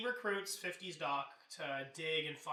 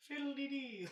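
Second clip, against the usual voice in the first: put-on Irish accent; 8 semitones higher than usual. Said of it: "my terrible Irish accent".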